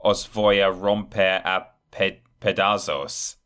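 halting, slow mock Spanish accent. Shown as a demonstration. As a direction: read it out in a bad Spanish accent. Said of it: "With my terrible Spanish accent".

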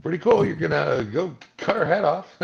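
cheerfully casual about gore; imitating Chad. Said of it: "he's just like".

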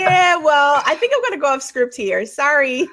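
laughing as you put on a rebel refusing; lively mock refusal, breaking into laughter; mock defiance. Host teasingly acts out the guest going off script, mock defiant.

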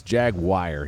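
"Jaguar" ending like "wire", "JAG-wire"; the "wire" pronunciation. Shown as a demonstration. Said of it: "one of those wire guys".

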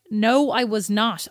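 drawn-out mock denial; indignant denial. Denying sleep-talk to husband, indignant denial. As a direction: stretch out the refusal, slowly. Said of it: "And I'm like".

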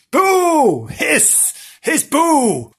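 high mock boos and hisses; pantomime booing. Storyteller heckles the smiling murderers, pantomime booing. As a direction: jeer like a panto audience.

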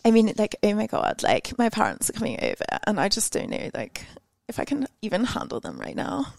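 softly put-on Chelsea accent; a light Chelsea accent impression. Shown as a demonstration. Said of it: "That's like my Chelsea accent".

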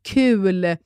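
ordinary talk

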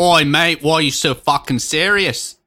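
loud, hammed-up Aussie accent; Australian impression. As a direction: belt it out as a mock Australian bloke. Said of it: "even doing a real accent".

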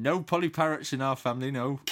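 lightly imitated Cornish rugby teacher; a touch of West Country accent, imitating. Teacher missing the pupils' parrot joke, lightly mimicked Cornish accent. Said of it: "he was from Cornwall or that kind of area".

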